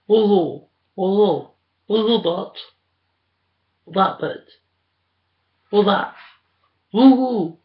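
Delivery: high, loud whooping cheers; cheering. Real, not acted. Cheering wildly.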